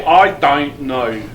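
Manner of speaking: slow, drawn-out Aussie or Kiwi I don't know; a playful, slow Australian-accent I don't know. Retold or imitated. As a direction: imitate a New Zealander stretching out I don't know. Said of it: "the Aussies and the New Zealanders say".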